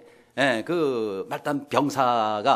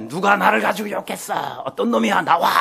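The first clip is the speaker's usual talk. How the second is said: higher-pitched mock outraged demand; angry shouting; 4 semitones higher than usual. Emperor demanding the culprit step out, acted angry yell. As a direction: call out the culprit like a furious emperor. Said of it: "막 소리를 지르니까".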